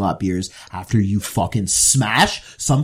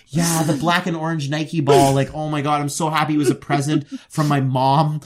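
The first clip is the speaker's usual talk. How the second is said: acted gushing story; 4 semitones higher than usual. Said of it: "went so deep into, like, the story".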